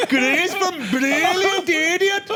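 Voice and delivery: mock crying fan.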